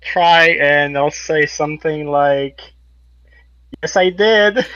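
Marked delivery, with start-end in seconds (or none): 3.8-4.6 lightly mimicked villain, a touch higher; sneering gloating dark voice. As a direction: put on the necromancer's voice. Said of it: "mimicking the necromancer's voice".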